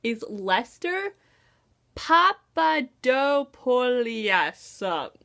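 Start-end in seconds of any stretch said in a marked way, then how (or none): 1.9-5.1 Papadopoulos sounded out slowly syllable by syllable; slow careful reading of Papadopoulos; careful try at Papadopoulos. Shown as a demonstration. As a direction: spell out Papadopoulos slowly, unsure of it. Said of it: "I probably said that wrong".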